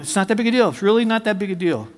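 lightly voiced soothing aside; imitated reassurance. Wife calming her husband about the tattoo, mildly reassuring.

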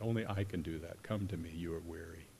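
hushed imitation of a whisper; imitated gentle whisper. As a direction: say it quietly, as intimate comfort. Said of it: "He's whispering that".

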